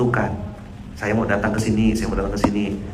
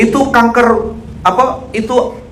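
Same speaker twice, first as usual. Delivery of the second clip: high, loud rapid-fire questions; imitated ustadz going full throttle; retold harsh grilling; 10 semitones higher, 6 dB louder than usual. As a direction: grill him relentlessly. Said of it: "Langsung digas".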